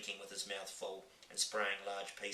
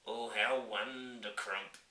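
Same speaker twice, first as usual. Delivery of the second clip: slow, beaming giant delight; delighted cry; 2 semitones higher, 3 dB louder, slower than usual. Acted. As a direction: savour it with joy. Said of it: "cried the B F G".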